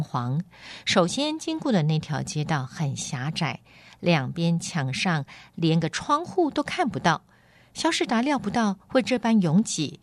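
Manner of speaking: lively storybook reading with wide pitch swings; animated audiobook narrator; story narration. A narrator's reading. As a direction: read the tale expressively, voicing its characters. Reads a novel chapter aloud.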